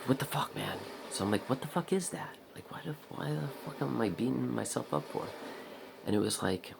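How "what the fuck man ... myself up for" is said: higher, baffled self-scolding; incredulous outburst. Retold or imitated. Questioning why he beats himself up, high incredulous outburst. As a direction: demand an answer from yourself. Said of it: "and I'm like".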